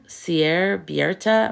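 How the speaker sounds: "Sierra Bierta" said slowly, syllable by syllable, ending on a rise; careful name. Real, not acted. Streamer greeting a viewer, unsure how to say the name. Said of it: "not sure how to say her name".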